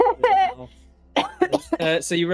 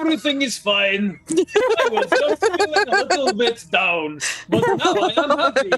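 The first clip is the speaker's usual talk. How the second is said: mock cheerful ogre; 10 semitones higher, 6 dB louder than usual. The ogre reassures the guards.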